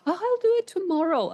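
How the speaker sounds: high, quick and careless; lazy careless voice. Retold or imitated. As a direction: brush it off lightly.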